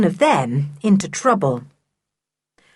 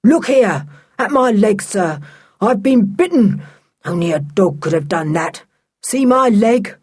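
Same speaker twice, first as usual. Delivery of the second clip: indignant complaint; 2 semitones higher than usual. Acted. Angry bitten servant complains.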